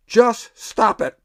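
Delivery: slow, deadpan shrink telling a patient to quit; drawn-out dry advice, lightly imitated; Bob Newhart impression. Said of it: "then he would just say".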